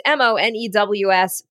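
M O N E W S spelled out letter by letter. Shown as a demonstration. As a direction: spell out M O N E W S clearly. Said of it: "That promo code Mo News".

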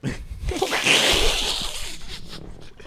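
laughter. Real, not acted. Reacts to being pressed about Bogotá.

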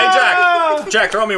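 calling a coworker across the office. Real, not acted. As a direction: call for him from afar.

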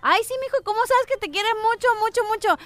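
lightly voiced sugary mom; doting mother.

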